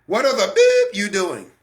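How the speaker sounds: mock scolding with a censoring beep; imitated parent cussing. Parent cussing out a child, retold as a mild mock scolding. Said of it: "cussing their children out".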